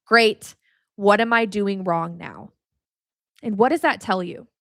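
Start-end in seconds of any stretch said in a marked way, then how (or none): 0.0-2.5 weary dread. Retold or imitated. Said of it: "that was always my reaction".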